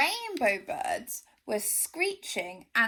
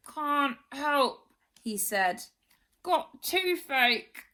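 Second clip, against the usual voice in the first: slow moaning excuse; moaning crocodile; 4 semitones higher, slower than usual. Acted. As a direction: moan through toothache. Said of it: "just moaned".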